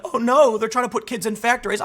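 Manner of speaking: mock alarm at kids working; mock outrage. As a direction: mimic a panicked critic, half-hearted. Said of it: "the left get all angry".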